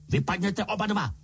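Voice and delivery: croaked order, lightly voiced; croaking. A narrator's reading. Uncle croaks at both boys to get out. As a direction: croak them out of the room. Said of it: "zakrákal strýc Vernon".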